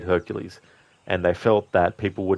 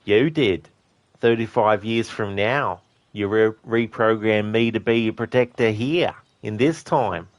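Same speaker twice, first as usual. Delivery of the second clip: a light take on Arnie's Terminator, measured and flat; 3 semitones higher, 3 dB louder, slower than usual. Retold or imitated. Quoting Arnie's Terminator line for chat, lightly voiced. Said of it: "John Connor asks him in Terminator two".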